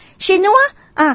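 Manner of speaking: high rising question; high-pitched, lifted at the end; imitated local asking. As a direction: mimic a stranger's hopeful one-word query. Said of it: "อีกคนนึงมาถึงบอกว่า".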